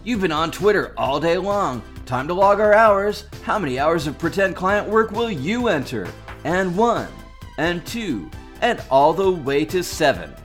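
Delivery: counting reps like a gym coach; fitness instructor. Acted. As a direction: call out each rep. Workout coach parody.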